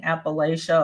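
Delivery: Appalachia said as appa-LAY-shuh; long ay in the middle of Appalachia; Southern pronunciation. Shown as a demonstration. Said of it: "that's what they say".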